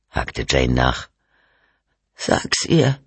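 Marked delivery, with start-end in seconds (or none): 2.1-3.0 high, insistent woman's voice; demanding. A narrator's reading. Wife challenges husband to tell detective, demanding. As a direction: press him to confess, pitched up. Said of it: "forderte Cynthia ihn auf".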